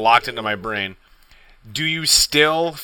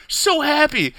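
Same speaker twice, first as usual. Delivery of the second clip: much higher, slow giddy lilt; mock joy; 14 semitones higher, slower than usual. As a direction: act out pure happiness. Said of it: "the stages of grief".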